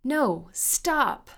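high, loud, desperate command; panicked shout. A narrator's reading. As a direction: scream for them to stop. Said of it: "shouted Christy".

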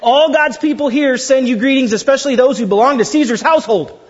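astonished, half-laughing reading of the greeting; amazed reading. Shown as a demonstration. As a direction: read it with a laughing gasp of amazement. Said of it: "You guys gotta suck wind".

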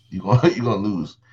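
laughing through the words. Real, not acted. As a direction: chuckle while saying it. Repeated punchline with laugh.

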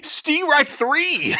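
slow, high, loud strike call; umpire calling strikes. Pretend. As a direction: bellow it like an umpire at the plate. Mocking his failed guesses.

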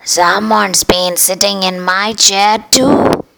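slow, lightly voiced mama bear; a mild mother bear's dismay; Mama Bear sees her chair used. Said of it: "said the mama bear".

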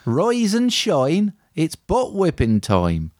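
high then slow disguised film voice; a hint of a mock film character; lightly put-on movie voice; disguised impression. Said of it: "I've disguised the impressions".

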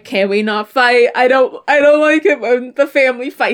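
mock near-tearful plea; lightly acted, upset pleading; verge of crying. Dean begging his family not to fight, mildly tearful. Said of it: "on the verge of crying".

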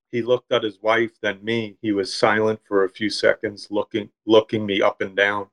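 measured, even literary narration; story reading. A narrator's reading. Author reading his deli story to a listener, story reading. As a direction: read your own short story aloud.

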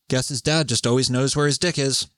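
mildly deadpan quoted reply. Acted. Bystander in the dream answers the stunned bar, deadpan. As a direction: deliver the punchline with understated deadpan.

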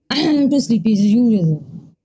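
imitated sleepy dad, dragging to a slow end; half-asleep dad. Dad too sleepy to deal with it, half-asleep. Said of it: "ninety-nine point nine percent asleep".

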